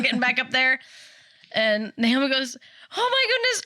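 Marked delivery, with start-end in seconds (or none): 3.0-3.6 put-on high excited little girl. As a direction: squeal like a young girl. Naomi quoted.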